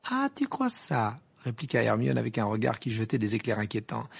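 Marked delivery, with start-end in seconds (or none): 0.1-1.2 high, slow challenge; indignant. Acted. Hermione answering Ron who accused her of lying, indignant. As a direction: challenge him in offence.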